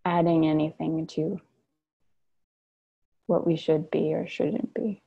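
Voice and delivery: unhurried meditation guidance with long pauses; guided meditation. Real, not acted. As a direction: guide them gently into stillness, pausing between phrases. Leads a guided sit.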